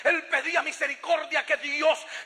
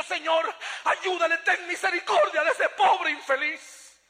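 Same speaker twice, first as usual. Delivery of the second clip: retold anguished prayer, pitched higher; tearful plea; 4 semitones higher than usual. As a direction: beg God for mercy as if near tears, stretching the end. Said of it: "Empecé a llorar y le digo". (súplica angustiada, casi llorosa)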